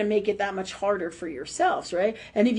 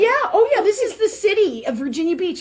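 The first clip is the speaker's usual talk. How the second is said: laughing out loud through the words, voice jumping high; cracking up while telling; 7 semitones higher, 4 dB louder than usual. Real, not acted. Laughing as she tells the listener about the city.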